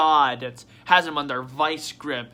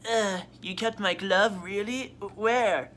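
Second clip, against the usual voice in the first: higher, put-on voice, touched and surprised; Akechi; 4 semitones higher, slower than usual. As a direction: play a moved rival in a raised voice. Acts out Akechi in a skit.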